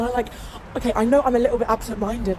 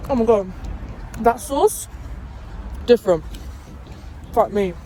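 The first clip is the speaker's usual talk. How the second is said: amazed tasting. Real, not acted. First bite of a sandwich.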